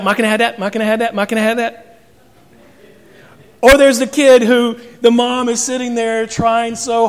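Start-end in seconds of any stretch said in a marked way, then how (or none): 0.0-1.8 put-on whiny kid. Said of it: "But it comes out".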